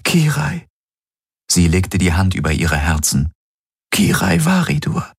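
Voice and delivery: reach him through shared memories; heroine's plea. A narrator's reading. Kirai tells Galen her name.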